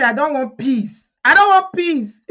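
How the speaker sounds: building to a high, loud mock outcry; mock protest. Vlogger acts Yinka refusing peace, mock protest.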